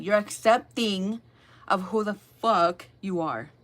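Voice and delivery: slow, weighty delivery of who the fuck you are; deliberate emphasis. Real, not acted. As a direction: lean on every word so it lands. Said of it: "I had to say it like that".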